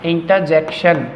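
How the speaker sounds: slow "inta-jekshan" for इंटरजेक्शन; correct pronunciation. Shown as a demonstration. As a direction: model इंटरजेक्शन slowly, softening away the R. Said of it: "मैं आर sound नहीं कर रहा हूँ". (इंटरजेक्शन धीरे, र दबाकर)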